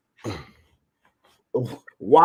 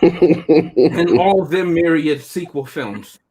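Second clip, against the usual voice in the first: laughing mockery; much slower than usual. Real, not acted. Mocking the movie through laughter.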